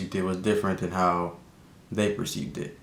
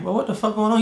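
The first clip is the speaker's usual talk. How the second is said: high, loud shocked shout; retold yell; 13 semitones higher, 5 dB louder, faster than usual. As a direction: yell it like you just woke up to this. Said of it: "I'm like".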